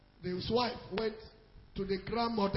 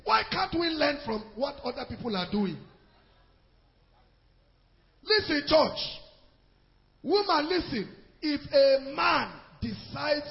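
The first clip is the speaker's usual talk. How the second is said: loud, raised preacher's voice; preaching exhortation; 4 semitones higher, 5 dB louder than usual. Real, not acted. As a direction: drive the point home to the church.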